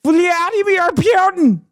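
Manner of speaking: high, slow hammed-up twang; mock twang. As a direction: ham it up like a folksy politician. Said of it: "the more she fucking goes".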